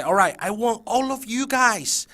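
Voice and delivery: slow high build to a loud squealed greeting; signal to shout. Shown as a demonstration. Teacher signalling kids to shout her name, fake scream. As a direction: cue the class, then belt the name high. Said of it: "to scream and shout out my name".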